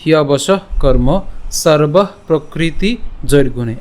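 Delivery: slow, measured shloka recitation; Sanskrit verse recitation. Shown as a demonstration. Teacher reciting today's Gita verse to the class, slow Sanskrit recitation. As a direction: recite each Sanskrit phrase deliberately, with short pauses. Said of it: "আজকে শ্লোকটি হলো".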